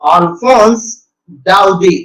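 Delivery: अल्फोंस डाउडे said slowly and clearly; careful pronunciation. Shown as a demonstration. Teacher has class listen closely to the writer's name, careful pronunciation. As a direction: spell out अल्फोंस डाउडे by ear, unhurried. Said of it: "अच्छे से सुन लेना".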